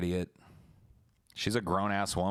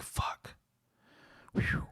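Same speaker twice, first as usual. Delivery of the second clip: whispered curse. Retold or imitated. Inner curse at the door.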